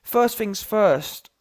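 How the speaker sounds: ordinary talk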